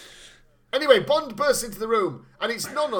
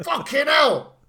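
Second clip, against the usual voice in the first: loud laughing outburst; exclaimed laugh; 8 semitones higher, 7 dB louder, slower than usual. Real, not acted. Friend shouting in amused disbelief, loud. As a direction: burst out laughing.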